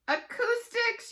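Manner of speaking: very high, slow, loud yell; loud, drawn-out yelled answer. Acted. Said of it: "yelled Andrea".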